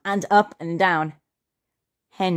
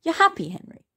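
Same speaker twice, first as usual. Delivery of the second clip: surprised Mum; 12 semitones higher, faster than usual. A narrator's reading. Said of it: "said Mum".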